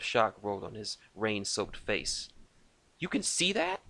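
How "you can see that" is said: much higher, startled question; shocked. A narrator's reading. Lucas caught scratching by sniper, shocked. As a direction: caught out, voice jumps up.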